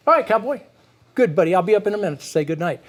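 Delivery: easy, even-toned dad letting son go; a steady, unbothered parent sign-off; calm parent voice. Shown as a demonstration. Dad calmly sending his tired son off to bed, unfazed. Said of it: "went into your parent voice".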